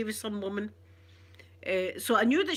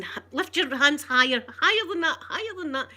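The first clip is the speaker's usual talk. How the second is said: louder, higher commands to lift hands; barked order; 5 semitones higher, 5 dB louder than usual. Retold or imitated. Teacher making the pupil raise hands for the belt, louder. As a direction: drill it like a strict teacher.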